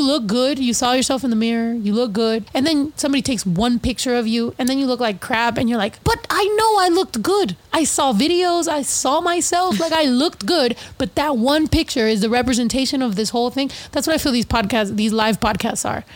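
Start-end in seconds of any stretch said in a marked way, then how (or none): 6.0-10.7 higher, protesting self-quote; whiny mock protest, pitched up; mock insisting. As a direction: plead that you really looked good. Insisting after a bad photo.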